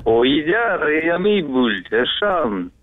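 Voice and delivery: Ой, идя райо ми буль said as reversed gibberish; backwards speech. Pretend. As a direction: read the words backwards, sound by sound. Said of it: "поздравить задом наперёд".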